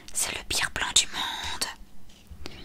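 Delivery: long drawn-out whispered howl; stretched, panicky stage-whisper cry; whispered wail. A narrator's reading. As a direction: wail the complaint slowly in a whisper. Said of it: "le concert de hurlements".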